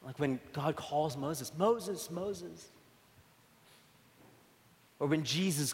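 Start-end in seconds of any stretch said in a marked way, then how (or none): 1.6-2.7 tender calling. Retold or imitated. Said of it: "with great pathos".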